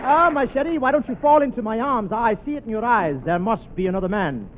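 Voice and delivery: put-on Charles Boyer French. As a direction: play the swooning French lover. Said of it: "I'm Charles Boyer".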